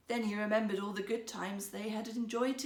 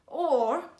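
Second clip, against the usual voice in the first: teasing; 4 semitones higher, 9 dB louder than usual. Acted. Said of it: "he repeated".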